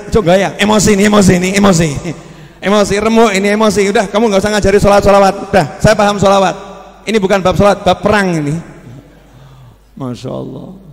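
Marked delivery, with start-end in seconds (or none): 0.1-6.6 louder, fast mock anger; mock angry quarrel. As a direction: play the hothead refusing advice.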